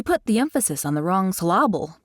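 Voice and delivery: emPHAsis and sylLAble, stressed jokingly on the middle; "emphasis" and "syllable" each punched on the second syllable; misplaced stress joke. Retold or imitated. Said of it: "As my dad joke-loving father always says".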